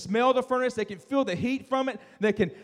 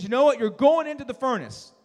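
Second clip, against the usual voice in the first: angry king; 3 semitones higher, 5 dB louder than usual. Acted. Angry king sentences boys.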